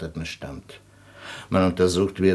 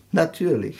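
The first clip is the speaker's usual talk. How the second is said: laughing; 9 semitones higher than usual. Acted. Doctor mocking own theory.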